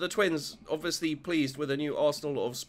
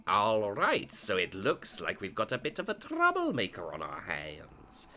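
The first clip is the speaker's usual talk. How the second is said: wry dad aside; lowered dad voice; Joseph voice; 7 semitones lower than usual. Acted.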